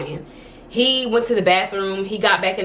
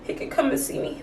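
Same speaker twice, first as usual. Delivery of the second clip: mock performative crier; 6 semitones higher than usual. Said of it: "maybe it was a little performative".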